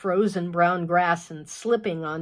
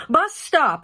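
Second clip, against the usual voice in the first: put-on higher, louder call after a departing teen; yelling; 8 semitones higher, 6 dB louder than usual. Mother yelling to her son leaving, loud reminder. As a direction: yell it to reach him before the door shuts. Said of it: "Giddy yells".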